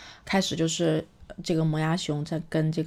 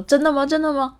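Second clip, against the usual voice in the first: much higher and louder, bouncing with excitement; a cheeky kid who can't wait to try; high squeaky delighted double question; eager disbelief; 8 semitones higher, 7 dB louder than usual. Acted. Orange eagerly doubts the leaf's warning.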